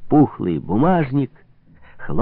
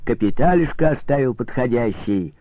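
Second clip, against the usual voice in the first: a lightly voiced host at full carouse, high and a bit louder; drunk revelry; 5 semitones higher, 4 dB louder than usual. Drunk host urging his guests to party. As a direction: call the guests to party, tipsy.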